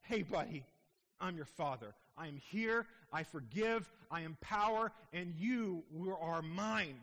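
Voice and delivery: lightly voiced tender Father, slowing at the end; voicing God as Father. God speaking to a weary believer, tender fatherly voice. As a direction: speak as a loving father to his child. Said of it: "He says".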